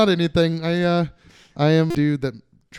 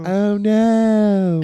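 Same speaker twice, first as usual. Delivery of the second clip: put-on accent voice; 6 semitones higher, 9 dB louder than usual. Accent game, exaggerated oh no.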